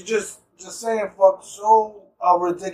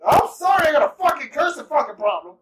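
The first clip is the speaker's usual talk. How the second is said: mock outburst; 5 semitones higher than usual. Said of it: "Sir, I'm gonna need you to stop cursing".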